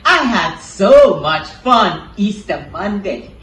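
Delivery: put-on bright, high puppet boy bragging; chirpy kid puppet, excited; child puppet voice. Puppet boy RJ talks to Cindy.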